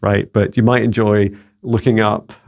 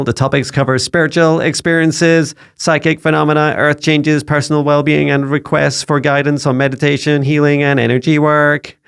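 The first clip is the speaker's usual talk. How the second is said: higher monotone AI voice; robot voice; 5 semitones higher than usual. Acted. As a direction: read it like a robot assistant. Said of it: "you enjoyed my robot voice".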